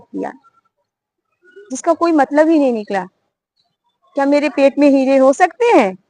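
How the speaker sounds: hint of a mocking bird scolding the hunter. Bird explains second lesson.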